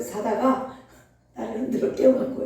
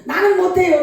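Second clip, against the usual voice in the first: retold crying plea; 5 semitones higher, 5 dB louder than usual. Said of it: "펑펑 울면서".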